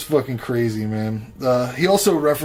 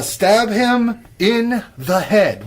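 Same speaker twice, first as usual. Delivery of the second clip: "stab him in the head" drawn out slowly, higher; emphatic; 8 semitones higher, 4 dB louder, much slower than usual. Real, not acted. Host advising horror victims, "stab him in the head" slow and emphatic. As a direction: hammer each word of "stab him in the head".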